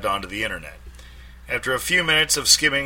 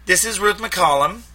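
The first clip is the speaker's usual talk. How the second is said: bored; 11 semitones higher, 8 dB louder than usual. A narrator's reading. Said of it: "Ruth was sounding particularly bored".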